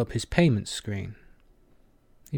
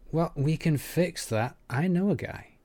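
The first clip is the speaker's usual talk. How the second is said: higher-pitched, upbeat offer; proclaiming; 6 semitones higher than usual. A narrator's reading. Kiva offering Aki a new dealer, proclaiming. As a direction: announce it like a ready fix. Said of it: "Kiva proclaimed".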